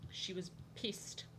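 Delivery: slow, hushed whisper; whispered aside. Real, not acted. Telling viewers about the angry group chat girl, whispered. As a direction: whisper it slowly like gossip.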